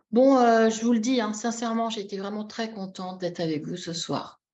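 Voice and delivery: reluctant, deflating mock sincerity; sinking, unconvinced delivery; insincere contentment. Shown as a demonstration. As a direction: claim to be happy while clearly not meaning it. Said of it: "Elle est pas en accord avec ce qu'elle dit".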